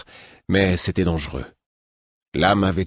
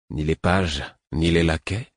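ironic echo; 2 semitones lower than usual. Acted. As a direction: toss his words back with a dry smile. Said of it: "Un petit sourire ironique".

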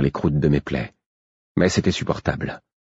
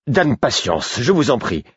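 ton suppliant; 6 semitones higher than usual. A narrator's reading. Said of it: "avait soudain changé de ton".

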